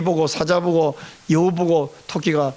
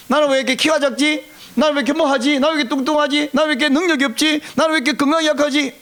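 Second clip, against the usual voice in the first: higher-pitched string of mock laments; mock self-complaint; 6 semitones higher, faster than usual. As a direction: reel off complaints about yourself, pitched up. Acts out rapid-fire self-complaints. (높은 톤으로 늘어놓는 자기 한탄 흉내)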